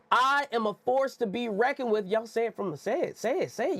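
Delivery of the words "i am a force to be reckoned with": emphatic group affirmation. Shown as a demonstration. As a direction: lead the room in a firm, deliberate declaration. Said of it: "Y'all read it with me".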